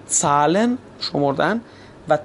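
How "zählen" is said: زالن opening on "ts", as "tsalen". Shown as a demonstration. Teacher giving an example, زالن as "tsalen". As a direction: say زالن with t run into s.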